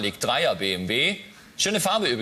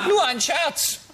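high daughter voice; 13 semitones higher, much slower than usual. Acted. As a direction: play the cheeky teenage daughter. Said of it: "Ich unterscheide es stimmlich ein bisschen".

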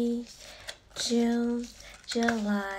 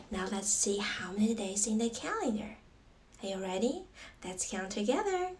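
kindergarten teacher voice; 2 semitones lower than usual. Acted. Teaching calendar to young children.

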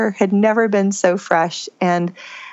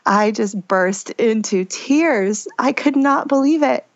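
crying again; 3 semitones higher, slower than usual. Real, not acted. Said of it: "that just makes me cry again".

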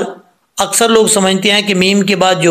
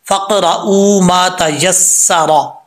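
slow recitation; much slower than usual. Shown as a demonstration. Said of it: "हम यहाँ से start करते हैं".

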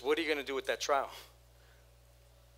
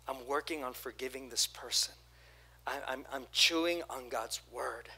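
softer, quieter, owning the anger; steady and sincere, working through hurt; hurt but forgiving; 2 semitones lower, 4 dB quieter than usual. Retold or imitated. Congregant telling the pastor, quiet and sincere. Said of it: "the response is".

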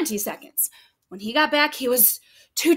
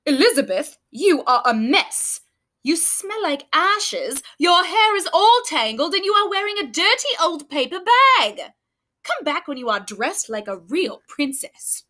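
snobbish prince; 3 semitones higher than usual. Acted. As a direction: sneer at her mess. Prince Ronald voiced in story.

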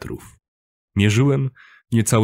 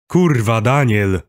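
raised, irritated burst; exasperated outburst; 3 semitones higher, 4 dB louder, slower than usual. A narrator's reading. Kuba fed up with Daniel, exasperated outburst. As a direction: snap at him for asking. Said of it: "wypalił".

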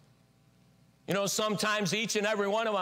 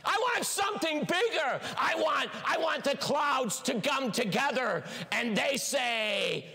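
demanding more; 4 semitones higher than usual. Pretend. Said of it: "preacher voicing demanding believer".

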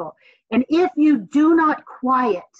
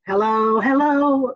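from the diaphragm; slower than usual. Shown as a demonstration. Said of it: "like that, okay?".

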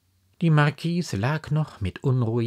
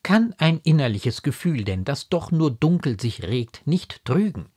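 high, emphatic remonstrance; raised voice, pressing the questions; exasperated, incredulous mother; 8 semitones higher, 5 dB louder than usual. A narrator's reading. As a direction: argue with her in disbelief.

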